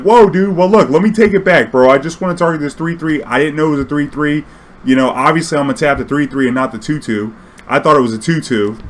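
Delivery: high, loud pleading; pleading to take it back. Retold or imitated. Player begging his Nationals opponent to let him retarget.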